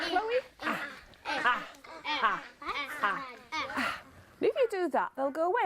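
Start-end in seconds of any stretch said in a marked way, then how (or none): 0.6-4.0 repeated ah. Shown as a demonstration.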